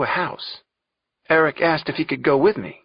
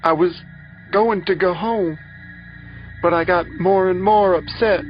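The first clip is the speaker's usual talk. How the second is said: high, louder distressed account; pained, raised voice with halting pauses; upset testimony; 7 semitones higher, 4 dB louder than usual. A narrator's reading. Rape victim recounting growing upset.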